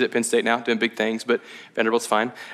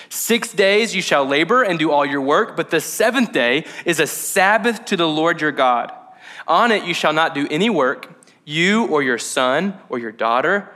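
scripture reading. Acted. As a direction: read the commandment with weight. Reads Exodus 20 aloud.

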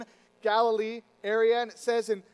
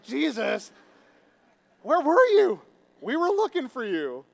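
high, loud playful holler; casual, raised-voice hail; calling out; 5 semitones higher, 9 dB louder than usual. Acted. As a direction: call out to a friend who wandered off. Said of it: "And so the disciples were like".

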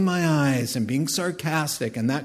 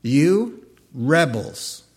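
mock rant; 4 dB louder, much slower than usual. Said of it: "So he goes on a rant".

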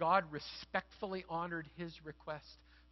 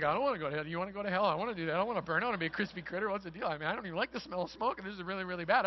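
put-on panicking camp kids; much faster than usual. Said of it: "all the kids are like".

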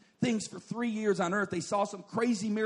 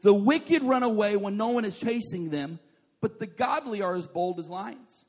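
scripture reading; 3 semitones higher, 5 dB louder than usual. Shown as a demonstration. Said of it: "Proverbs chapter twenty-eight, verse one says".

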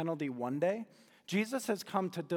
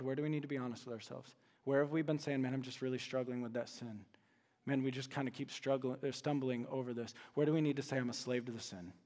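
much softer and lower, intimate; quiet confessional; 4 semitones lower, 6 dB quieter than usual. Real, not acted. Pastor softly urging listeners to be honest about sin, hushed and low. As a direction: lean in and speak gently to the heart.

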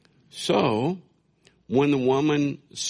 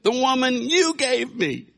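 high, louder blame with a laugh; hammed-up Adam blaming God in a high whine; whiny Adam; 5 dB louder than usual. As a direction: push the blame onto God too. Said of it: "He says".

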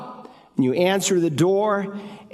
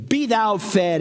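higher, solemn mock blessing; mock pious; 4 semitones higher than usual. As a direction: bless them off with hollow piety. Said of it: "with that religious piosity".

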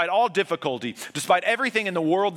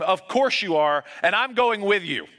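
yelling back; 5 semitones higher, 4 dB louder than usual. Retold or imitated. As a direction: shout it back, refusing to be left. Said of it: "And Sam yells back at him".

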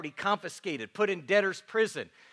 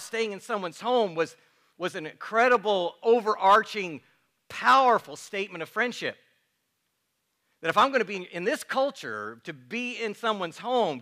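preaching; 2 semitones higher than usual. Acted. Pastor stressing friendship to the congregation, preaching. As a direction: drive the point home from the pulpit.

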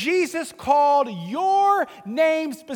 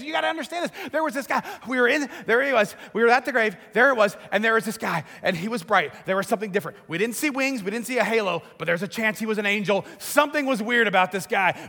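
breathless excitement; faster than usual. Retold or imitated. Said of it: "great excitement".

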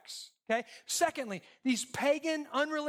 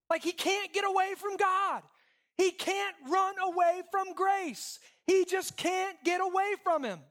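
emphatic preaching; 7 semitones higher than usual. Real, not acted.

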